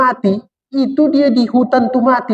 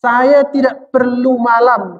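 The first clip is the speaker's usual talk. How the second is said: slow, raised and solemn as God speaking; God declaring calmly to man, slightly higher; 4 semitones higher, much slower than usual. Acted. Preacher voicing God to his listeners, slow and solemn. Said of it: "kata Tuhan".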